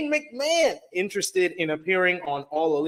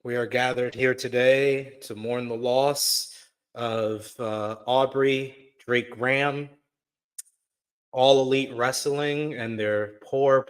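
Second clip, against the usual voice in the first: mock solemn eulogy; 5 semitones lower than usual. Mock funeral for AEW ratings.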